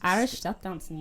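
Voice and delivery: rusty Irish accent; shaky-memory Irish accent; attempted Irish accent. Shown as a demonstration. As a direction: have a half-hearted go at an Irish accent. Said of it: "I used to have the best Irish accent".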